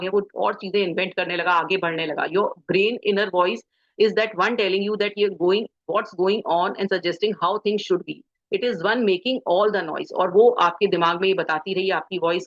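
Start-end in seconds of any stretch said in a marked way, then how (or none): 2.2-10.1 slow, careful reading of an English passage; reading aloud. Acted. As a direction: read each phrase out slowly, as from a book. Reads English book passage aloud. (धीमी आवाज़ में किताब पढ़ना)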